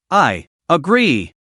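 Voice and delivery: slow words forced through gritted teeth. Acted. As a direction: grind it out through clenched teeth. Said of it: "said each word through gritted teeth".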